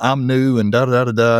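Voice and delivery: plain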